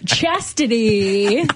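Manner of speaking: slow, drawn-out stage name call; announcer voice. Pretend. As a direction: stretch the name out like a hype man.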